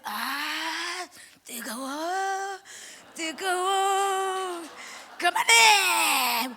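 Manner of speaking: very slow, drawn-out cry rising to a loud, high shout; possessed boy crying that it burns, shouting to stop; retold screaming. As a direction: wail "뜨거워" long, then yell "그만해" at full force. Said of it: "막 이 소리를 질러대는 거예요".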